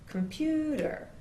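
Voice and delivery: comPUter with a high, slow peak on the stressed syllable; pitch height stressed. Shown as a demonstration. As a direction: lift the pitch on PU, slowly. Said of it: "clap in this direction".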